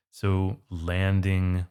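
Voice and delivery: slow model reading; slow demo. Shown as a demonstration. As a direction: stretch out landing to show the pairing. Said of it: "we can say".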